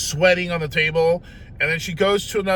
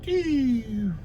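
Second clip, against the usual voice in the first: deflating squeal; 8 semitones higher than usual. Retold or imitated. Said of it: "that I went".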